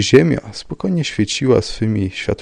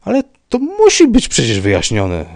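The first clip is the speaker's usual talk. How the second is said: high, loud, flustered protest; flustered babbling; 13 semitones higher, 7 dB louder than usual. A narrator's reading. Rybka insisting on an explanation, flustered babbling. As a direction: blurt out the protest, all agitated. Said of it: "zaczął bełkotać pan Rybka".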